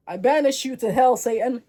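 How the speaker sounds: loud theatrical exorcism; mock banishing shout. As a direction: declare it like a hammy demon slayer. Acted son banishes a donkey.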